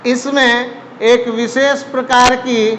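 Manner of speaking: slow, steady read-out for notes; slow dictation. Shown as a demonstration. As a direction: dictate it slowly so they can write. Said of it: "दूसरा point आप लिखेंगे". (धीरे-धीरे लिखवाना)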